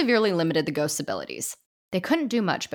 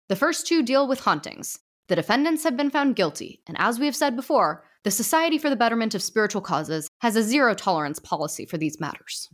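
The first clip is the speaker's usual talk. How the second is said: a lightly raised, formal judge voice; stern ghost judge; 4 semitones higher than usual. Acted. Judge addressing the ghost society, lightly formal. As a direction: pronounce it from the bench, gently raised.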